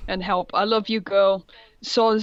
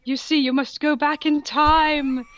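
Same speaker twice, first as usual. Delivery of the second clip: hammed-up professor; 5 semitones higher, 4 dB louder than usual. Professor's line read in voice.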